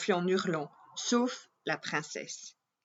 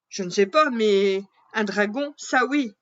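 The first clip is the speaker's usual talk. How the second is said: louder, emphatic repeat of "Je ne sais pas"; louder second "Je ne sais pas"; insistent; 2 semitones higher, 6 dB louder than usual. Acted. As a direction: insist firmly the second time.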